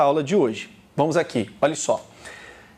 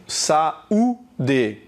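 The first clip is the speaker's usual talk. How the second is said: "saúde" in three parts, sa, ú, de; syllable division. Shown as a demonstration. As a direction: say "saúde" with a break between syllables. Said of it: "Você tá separando o A do U". ("saúde" separado sílaba por sílaba)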